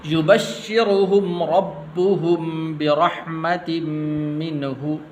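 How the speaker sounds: slow melodic Quranic chant; Quran recitation. Shown as a demonstration. Teacher reciting the verse to students, measured chant. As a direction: recite the verse slowly with tajweed.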